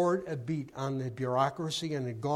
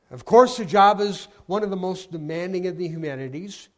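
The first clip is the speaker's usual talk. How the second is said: mock grand; 5 semitones higher, 11 dB louder than usual. Mother inflating her job title.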